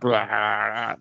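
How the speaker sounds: drawn-out imitated growl; mock roar. Imitates Nancy Reagan's angry outburst.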